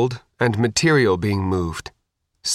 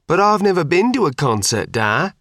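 mocking mimicry; 8 semitones higher than usual. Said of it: "the speaker mimicked".

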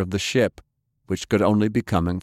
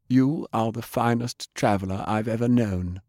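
lightly voiced assassin, plain and even; a hint of a foreign ninja, stating it simply; respectful ninja salute, understated; ninja woman, said simply; 2 semitones higher than usual. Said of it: "Toshiko said simply".

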